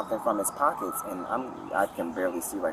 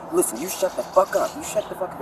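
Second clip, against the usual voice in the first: imitated angry man; 11 semitones higher, 5 dB louder than usual. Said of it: "is what he said".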